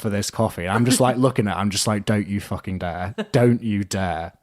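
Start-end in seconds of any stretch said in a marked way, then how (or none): 2.0-4.3 lightly acted warning, words stretched out; retold slow warning. Warning the girl not to laugh, slow mock threat. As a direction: draw each word out as a mock threat.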